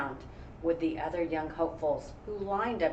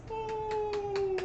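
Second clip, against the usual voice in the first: cheer. Real, not acted. Cheering at the story.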